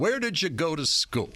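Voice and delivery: lightly voiced old newsman; a hint of stately Walter Cronkite. Cronkite chatting with the intern, a hint of stately anchor. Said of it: "that's how he talked".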